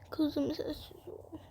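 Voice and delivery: slow, soft whisper; barely voiced shushing; hushing whisper. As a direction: whisper it to quiet a child. Hushing the child at night.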